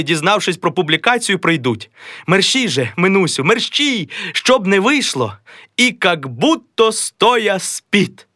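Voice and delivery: high, hurried wife's voice; a high, bustling wife; fussing wife. Acted. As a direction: rush him along, half scolding. Mazailykha hurries her husband.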